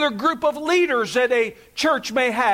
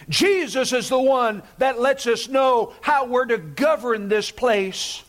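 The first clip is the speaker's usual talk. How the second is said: preaching shout. Real, not acted. Preaching emphasis.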